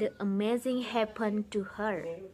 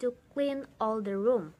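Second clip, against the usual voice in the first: wicked stepmother. Acted. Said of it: "And the answer would be".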